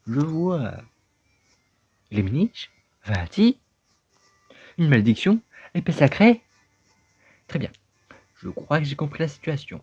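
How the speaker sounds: high, loud bossy character voice; a cranky little creature ordering the kid to help; impatient talking hat. Acted. Talking hat scolding the boy to help him, high and loud.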